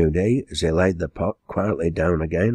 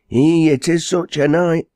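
high, louder dialect exclamation; astonished exclamation; 12 semitones higher, 5 dB louder than usual. Acted. Servant girl back from the storm, astonished. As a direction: exclaim it high, amazed at the weather.

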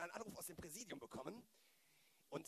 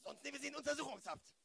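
drohend; 8 semitones higher than usual. Acted. Drohung mit Untersuchungshaft.

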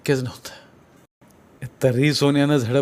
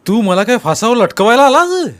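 loud, higher hostile demand; angry challenge; 7 semitones higher, 7 dB louder than usual. Acted. Sonya confronting the sarpanch about hanging, loud anger. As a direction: throw the question back like a threat.

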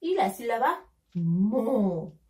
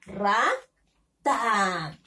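Rata split as RA, pause, long falling TA; teacher's drawn-out, separated Rata; syllable by syllable; 2 semitones lower than usual. Shown as a demonstration. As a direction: sound out "Rata" with a gap before "ta". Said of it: "Vamos a unirlo con la sílaba".

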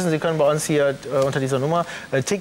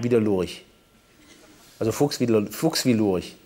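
lowered fake voice; disguised deep voice; 7 semitones lower than usual. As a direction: drop the voice low to disguise it. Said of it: "meine Stimme verstellt".

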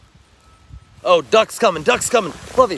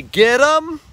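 command call; 6 semitones higher, 4 dB louder than usual. Shown as a demonstration. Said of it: "We'll say".

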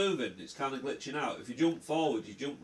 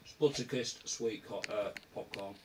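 mouth full; 2 semitones lower, 4 dB quieter than usual. Real, not acted. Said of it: "I'm eating popcorn".

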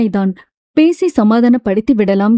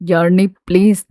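voice choking; 4 semitones lower than usual. Acted. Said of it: "குரல் தழுதழுக்க".

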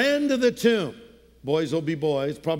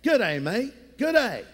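Australian greeting. Retold or imitated. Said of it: "Over in Australia".

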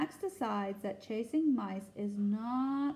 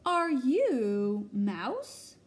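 slow loud call; 3 semitones higher, 7 dB louder, much slower than usual. Acted. Max calls out to a creature.

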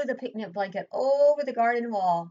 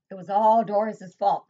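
louder, hurried blame; yelled; 7 dB louder than usual. Acted. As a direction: boys pass the blame in fright. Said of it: "they yelled".

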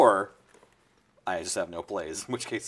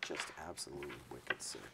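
put-on Boston accent; 6 semitones lower, 12 dB quieter than usual. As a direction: lower Boston accent, softly. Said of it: "Innistrad was by way of Boston".

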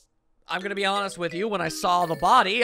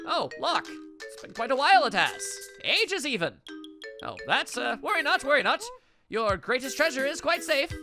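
feigning madness; 4 semitones higher than usual. Acted. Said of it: "The music implies intense wackiness".

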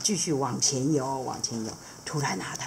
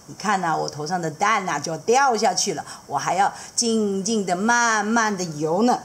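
lightly higher, careful voice; gently explain, mildly fussy; hook fish dad; 3 semitones higher than usual. Acted. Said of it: "钩鱼爸爸就说".

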